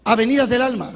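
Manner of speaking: booming refrain. Acted. Preacher proclaiming his sermon's refrain to the congregation, booming. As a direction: proclaim it loud from the pulpit.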